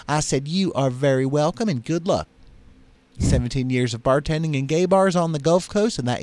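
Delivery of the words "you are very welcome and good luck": lightly voiced Southern bartender; Mississippi accent. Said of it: "how's my Mississippi accent".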